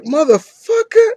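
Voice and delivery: high, loud mock-angry outburst; mock furious curse. Reviewer voices Tarzan kicked again by the fighter, high loud mock rage. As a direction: spit it out like a cornered Tarzan.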